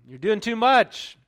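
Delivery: high, loud, drawn-out mock complaint; protesting outcry. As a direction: stretch it out in exasperated protest.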